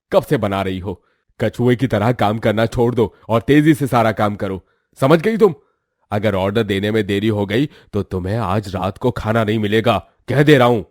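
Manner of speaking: loud harsh threats, rising to a shout; angry scolding. Acted. Uncle yelling threats at his orphan niece, loud and harsh.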